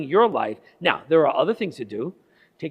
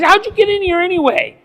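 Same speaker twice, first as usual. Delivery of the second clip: high, loud demanding question; startled loud demand; raised voice; 13 semitones higher, 7 dB louder than usual. Retold or imitated. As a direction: challenge him, voice up high.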